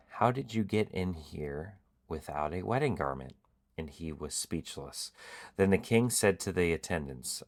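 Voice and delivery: steady, earnest reading of a Bible passage; scripture reading. Acted. Host reading the parable aloud, earnest and steady. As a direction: read the parable to the viewers.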